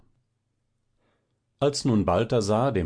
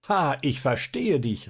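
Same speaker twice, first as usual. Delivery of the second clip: mild excitement; 5 semitones higher than usual. Acted. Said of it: "rief Balthasar begeistert".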